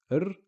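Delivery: a lone "r" with no vowel; bare letter sound. Shown as a demonstration. Teacher isolates the r for students, clipped. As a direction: give just the r sound. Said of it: "We're just saying yar".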